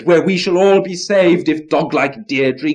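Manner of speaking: high, loud hopeful plea, slowing down; excited cry. Acted. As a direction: frogs begging for the boon. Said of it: "they cried".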